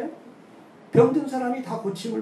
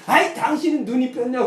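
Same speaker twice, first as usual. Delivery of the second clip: higher, louder mock snap at a spouse; angry blame; 5 semitones higher, 5 dB louder than usual. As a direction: play a bickering spouse, loud and higher. Quarreling couple blaming. (싸우는 부부의 높고 큰 호통 흉내)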